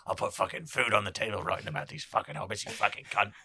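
lightly voiced grumbling husband; mock marital bickering, grumbled back; quarrelling husband. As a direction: play a cursing husband in a comic spat. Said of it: "He's like".

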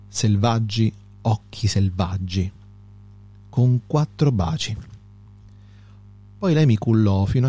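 narrative verse recited in short, separated phrases; measured poem reading, unhurried pauses; poetry reading. Acted. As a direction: recite the ballad with a pause after each line.

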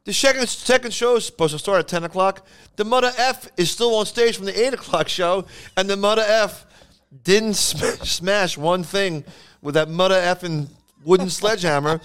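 high-pitched comic rant; exasperated club owner. Retold or imitated. Club owner rants about the headliner's late show, exasperated. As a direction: imitate an owner cursing his way through a complaint. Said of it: "and he goes".

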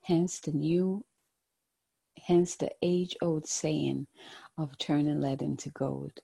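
gentle, hushed guided-meditation voice. Acted. Tarot card reading, meditative guidance.

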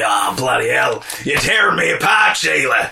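lightly voiced bloke; mock Kentish version. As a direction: give the movie line a local twist. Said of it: "the Kent said".

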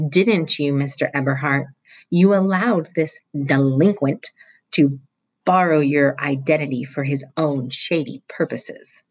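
acid, suspicious interrogation; stern vice principal. Acted. Vice principal threatening Roy with truancy police, acidly.

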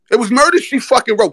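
high, crowing repeat of the line; hyped exclaim. Real, not acted. To his viewers, repeating the knockout line, excited. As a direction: hammer the gloat home a second time. Hyped about Knicks comeback win.

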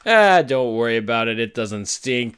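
lightly voiced brush-off; mock nonchalance; imitated casual dismissal. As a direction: wave it away like an unbothered grandpa. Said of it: "it was less of a".

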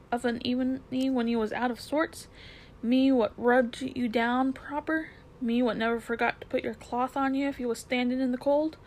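reproachful cabby. Acted.

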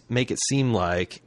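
normal talking voice

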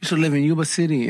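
lightly imitated Filipino accent; a hint of mimicked Filipino accent. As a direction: mimic a Filipino lady giving advice. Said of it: "She got the accent still".

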